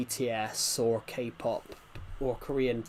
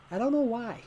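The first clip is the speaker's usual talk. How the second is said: much higher, a silly squeaky voice; squeaky mock voice; 8 semitones higher than usual. Streamer jokes to chat in a high silly voice. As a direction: pitch it way up for a joke. Repeats line, second time high.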